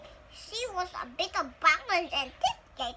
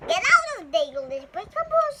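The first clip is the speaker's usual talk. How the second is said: louder, higher sharp call; papa calling out; 4 semitones higher, 8 dB louder than usual. Acted. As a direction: stop the child in its tracks. Papa stops Buck.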